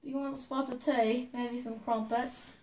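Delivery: lightly put-on British accent. Contestant takes on the host's accent challenge, British accent. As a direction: have a go at a British accent, drawing out the end. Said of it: "Do a British accent first".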